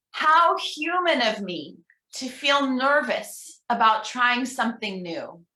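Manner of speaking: slow, earnest leader's reading; slow affirmation reading. Shown as a demonstration. Minister reading an affirmation for the congregation, slow and earnest. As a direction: give each word weight so they can follow. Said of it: "I'm gonna read each one".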